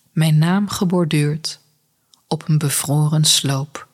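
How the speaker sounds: measured poem recital, pausing after each line; poem reading. Acted. Host reading an Icelandic poem to listeners, measured recital. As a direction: read the poem line by line, unhurried.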